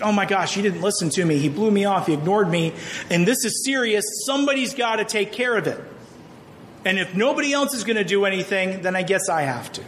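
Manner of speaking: a touch of exasperated venting, quickening; lightly acted frustrated teen rant; mild frustration. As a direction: hurry it as if fed up, lightly. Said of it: "Peter Parker's just frustrated".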